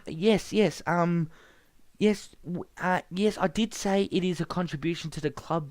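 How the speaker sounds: a nervous clerk handling a caller; Ben Tover's voice. Acted.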